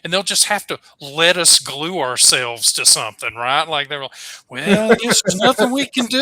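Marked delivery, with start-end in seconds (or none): 4.5-6.2 mock guard voice. Guards mocked, high loud voice.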